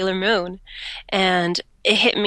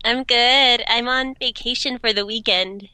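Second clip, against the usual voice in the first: blocked nose from allergies; stuffy nose; 4 semitones higher than usual. Real, not acted. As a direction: talk through a stuffy nose. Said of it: "I'm sorry I sound so stuffy".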